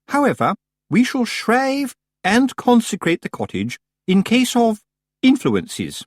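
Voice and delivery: high, grand and lofty; haughty Missus Earwig. A narrator's reading. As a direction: pronounce it like a ceremony.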